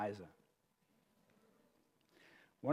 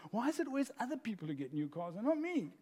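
whiny victim voice; 5 semitones higher, 6 dB quieter than usual. Acted. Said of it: "the victim voice says".

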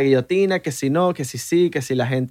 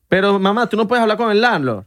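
mock son protest; 5 semitones higher than usual. Son arguing with mom.

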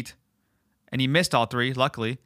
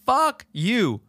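angry retort; 7 semitones higher than usual. Pretend. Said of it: "I would literally say".

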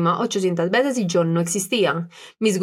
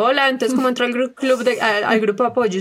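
eager newcomer message; 3 semitones higher than usual. Retold or imitated. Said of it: "nos han estado escribiendo".

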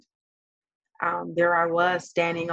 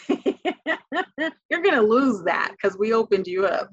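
retelling the doctors' words while laughing, slowed down; laughing through quote; 3 semitones higher, 3 dB louder than usual. Retold or imitated. Mother retells the doctors' warning to her daughter, laughing. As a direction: laugh your way through the doctors' bad news. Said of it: "and was like".

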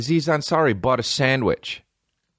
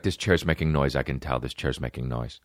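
mock whiny friend; 10 semitones lower, 4 dB quieter than usual. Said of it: "One Fire's like".

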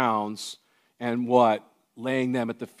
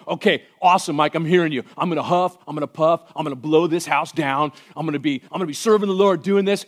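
mock eager listener; 3 semitones higher, 3 dB louder, faster than usual. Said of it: "you can hear this and go".

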